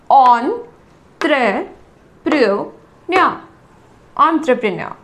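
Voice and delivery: एंटरप्रेन्योर split into parts, "on-truh-pruh-nyo", final r dropped; repeat-after-me एंटरप्रेन्योर, syllable by syllable; slow broken-up pronunciation. Shown as a demonstration. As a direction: break एंटरप्रेन्योर into syllables for students to copy. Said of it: "फिर से बोलिए आप मेरे साथ".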